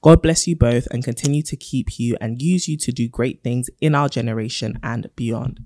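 letter reading. Acted. Reads a listener letter.

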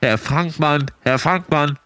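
paging a name over the park speakers; loudspeaker call. Pretend. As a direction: call him out over the tannoy. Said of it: "mach mal eine Ansage und ruf mal Peter".

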